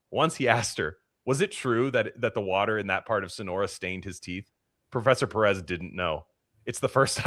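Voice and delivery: steady book-reading voice with small chuckles; reading a novel aloud. Acted. Reading a Bolaño passage to his co-host, light story narration. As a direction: read the passage out to your co-host.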